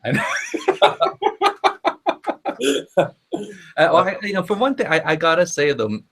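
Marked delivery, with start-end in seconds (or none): 0.3-3.1 hearty laugh. Real, not acted. Host laughs at glitchy guest.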